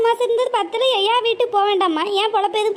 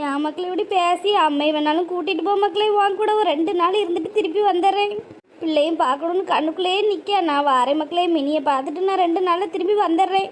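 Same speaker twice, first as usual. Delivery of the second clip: put-on pleading old mother; 3 semitones lower than usual. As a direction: coax her gently not to be angry.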